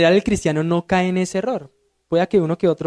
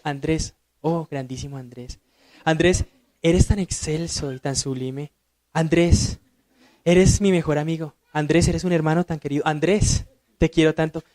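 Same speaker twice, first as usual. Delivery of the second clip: mock flattery. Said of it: "Imagínense que yo".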